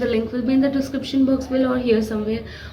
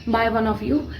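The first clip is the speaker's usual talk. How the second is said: talking through sore throat. Real, not acted. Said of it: "sorry for my voice, my throat is not that good".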